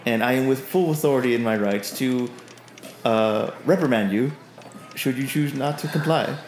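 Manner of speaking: lightly voiced, formal announcement; officious Olzek. Olzek relaying Beldor's strict orders, lightly officious. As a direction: recite orders stiffly, with deliberate pauses. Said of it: "you see him stand up tall, put his hands to his side and goes".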